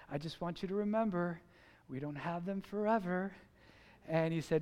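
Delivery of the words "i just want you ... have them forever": soft, lower, kindly reminder; gentle. Retold or imitated. Neighbor advising a frustrated father about kids, gentle. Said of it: "He was very gentle with me".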